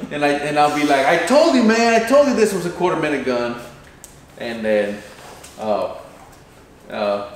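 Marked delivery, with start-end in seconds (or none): 1.1-3.6 much higher, louder told-you-so; gloating. Retold or imitated. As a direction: crow it at your buddy. Coach gloating after the shot.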